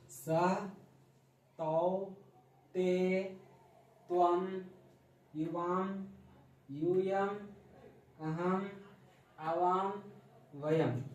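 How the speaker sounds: clear, measured chanting of each pronoun for pupils to repeat; recitation drill. Shown as a demonstration. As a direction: spell out every word slowly like a teacher leading the class. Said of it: "अब मेरे पीछे बोलिए".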